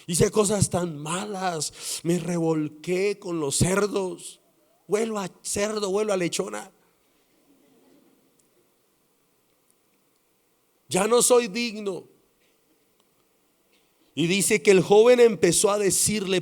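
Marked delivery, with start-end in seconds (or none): 0.0-12.0 tearful plea. Retold or imitated. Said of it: "empezó a llorar y a llorar y a decirle".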